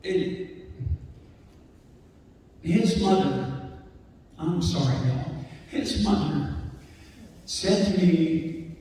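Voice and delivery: choking up over a lost friend; fighting tears. Real, not acted. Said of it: "I'm sorry to cry in front of you".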